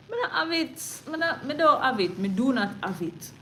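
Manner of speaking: loud wail of being broke; exasperated cry. Real, not acted. Telling viewers the medical bills drain him, exasperated cry.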